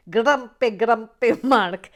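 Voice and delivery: announcing the poll loser loudly; calling out. Real, not acted. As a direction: call the name out like a winner. Announcing poll result to chat.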